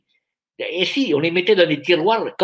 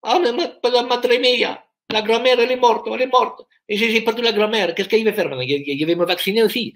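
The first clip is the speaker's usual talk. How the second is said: hammed-up Italian accent, higher; mock Italian lament over grandma; fake Italian accent; 4 semitones higher than usual. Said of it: "ça c'est italiano". (faux accent italien, plus aigu)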